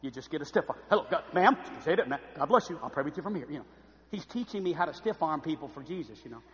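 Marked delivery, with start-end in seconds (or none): 0.9-3.5 a hint of a standoffish preacher; mock pastoral blessing held at arm's length. Pastor stiff-arming an emotional churchgoer, lightly put-on preacher voice. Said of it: "he put that preacher voice on".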